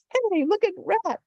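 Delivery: very high, delighted villager; excited call. A narrator's reading. Villager spotting Rat, high excited call. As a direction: call everyone over to look.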